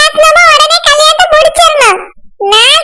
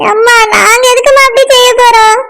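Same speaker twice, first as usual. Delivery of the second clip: crying protest; 4 semitones lower than usual. Acted. Friend hurt, accused by mother.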